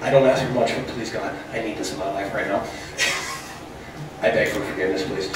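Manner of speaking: hushed, pleading prayer; desperate prayer. Retold or imitated. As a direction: beg God quietly. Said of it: "praying to God".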